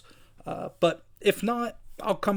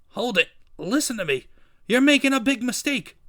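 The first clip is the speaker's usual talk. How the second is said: pleading, rising higher and louder; urgent protest; 7 semitones higher, 4 dB louder than usual. Acted. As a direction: plead urgently as you are hauled away. Captive protests to the Kingpin.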